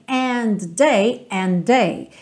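"and they" with the D flowing into the TH; linked "and they". Shown as a demonstration. Teacher showing the D and TH linked together. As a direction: join D and TH in "and they". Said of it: "essa junção de T T".

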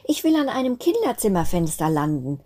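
dreamy wish. Acted. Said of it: "träumte Weißröckchen".

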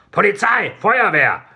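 high urgent call through a door. Acted. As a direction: shout it to someone behind a locked door. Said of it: "rief eine Stimme".

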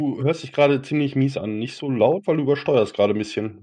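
distorted, tinny microphone; tin can sound. Real, not acted. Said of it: "du bist gerade richtig in der Blechdose".

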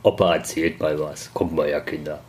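low, soft grandpa voice; rambling grandpa story. Pretend. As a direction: settle in like an old grandpa telling tales. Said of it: "Sehr gediegen".

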